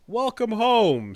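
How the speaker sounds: high, loud, drawn-out orc welcome; hammed-up slow creature hail; mock orc greeting. Host mimicking the orcs in a merger trailer, hammed-up. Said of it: "says the orcs".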